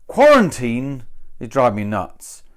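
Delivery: Quarantine punched at the start; stress on quarantine. Shown as a demonstration. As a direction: hit Quarantine, let the rest fall. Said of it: "I don't really like it so much".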